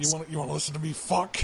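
quick cocky taunt; fast mocking prank line. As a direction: rattle it off fast. Prank call retold.

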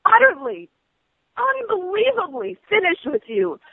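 rising, furious yell over the agent; screaming over the agent's interruptions; furious shout. Real, not acted. Angry customer yelling at the prank caller, furious.

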